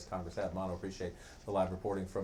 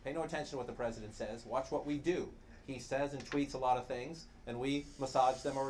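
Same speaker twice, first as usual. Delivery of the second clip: quoting aides; 6 semitones higher than usual. Retold or imitated. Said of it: "we have had aides telling us".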